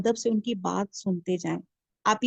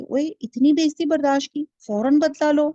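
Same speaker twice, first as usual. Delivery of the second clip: higher, louder goading tempter; a devil urging revenge, louder and higher; Satan's whisper voiced; 5 semitones higher, 4 dB louder than usual. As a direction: egg him on to take revenge. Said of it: "شیطان اس کو پٹی پڑھا رہا ہے کہ".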